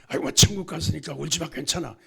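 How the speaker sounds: parroting the glib mourners' comfort with scorn; mocking platitude. Pastor mocking believers who tell mourners not to cry, scornful. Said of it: "그 따위 말이 어디 있어요".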